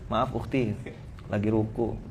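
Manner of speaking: a mock reply sent while praying, hushed. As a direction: murmur it like you're answering during prayer. Fake pious reply.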